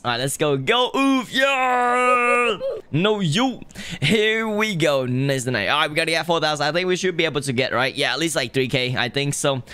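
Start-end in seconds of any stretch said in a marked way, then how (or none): 0.6-4.8 sudden high yell of triumph; excited shout. Real, not acted. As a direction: shout it out mid-heist, real. Excited shout during game heist.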